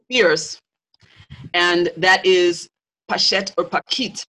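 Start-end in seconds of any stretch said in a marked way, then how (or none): 3.1-4.2 "Pachet" with a sh, "Pakit" with a k; alternative pronunciations. Shown as a demonstration. Teacher explaining interchangeable sounds, naming both pronunciations. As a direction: say "Pachet" as "pah-SHET", then "Pakit" with a hard k. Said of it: "the S H and the K H sounds were often interchangeable".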